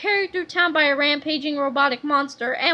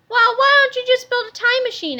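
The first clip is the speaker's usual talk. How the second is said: louder, higher eager question; 8 semitones higher, 6 dB louder than usual. A narrator's reading. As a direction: press the idea eagerly. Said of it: "asked George".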